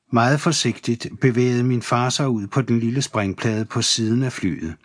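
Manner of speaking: usual speaking voice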